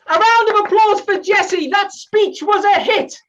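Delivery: booming meeting chair calling for applause; announcer call. Retold or imitated. Meeting chair rallies the Zoom room for Jesse, loud and high.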